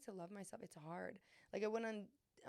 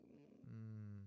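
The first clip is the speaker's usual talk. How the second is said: puppy whimper; 9 semitones lower, 7 dB quieter than usual. Retold or imitated. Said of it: "look like a little puppy".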